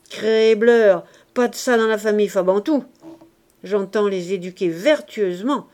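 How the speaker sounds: loud, pompous swagger of a fake father; hammy bluster of a scheming father; blustering Jondrette. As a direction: puff up your virtue and bluster. Jondrette boasting to Leblanc.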